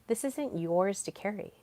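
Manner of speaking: softly voiced, with long pauses; quoted gentle counsel. AI consoling Salem about a father's wound, gentle counsel. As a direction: break it to them gently, unhurried. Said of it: "He's like".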